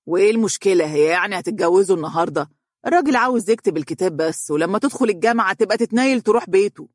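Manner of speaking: brushing off the objection; annoyed. Acted. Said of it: "قال والدها بحنق". (بحنق ونفاد صبر)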